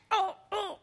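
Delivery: high breathless oh oh; gush, barely holding it together; overexcited. Real, not acted. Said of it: "I'm too excited".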